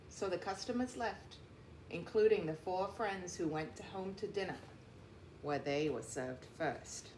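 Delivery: steady storybook narration; read-aloud voice for young listeners; reading to children. A narrator's reading. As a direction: tell the story to a class of kids. Reads picture book to class.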